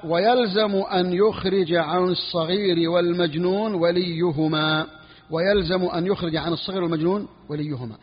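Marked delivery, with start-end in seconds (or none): 0.0-4.9 reads the legal text slowly, word by word; slow text reading. Shown as a demonstration. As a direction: spell out each word of the book slowly for the students. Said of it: "قال".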